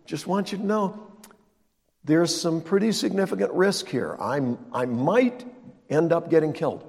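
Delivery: rambling, unsure lightly voiced Jesus; a hint of a hesitant Jesus; Jesus mock-hesitant. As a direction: hedge every word like a nervous friend. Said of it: "It's not what he said".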